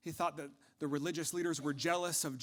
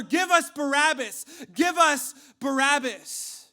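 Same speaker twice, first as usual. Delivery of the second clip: full-force high mob chant; louder crowd shout; 11 semitones higher, 16 dB louder, slower than usual. Acted. Crowd overrides Pilate's protest, shouting even louder. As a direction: shout it all the louder, drowning out objections. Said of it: "they shouted all the louder".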